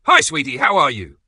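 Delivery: high, loud sugary mom greeting; fake cheery mom voice. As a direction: gush a sweet hello while faking the cheer. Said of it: "her usual fake cheery voice".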